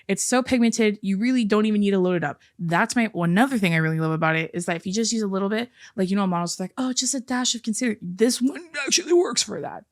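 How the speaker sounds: upbeat sponsor read for a concealer; bright, chatty product pitch. Acted. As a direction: sell it like a host-read ad. Host reads a sponsor ad.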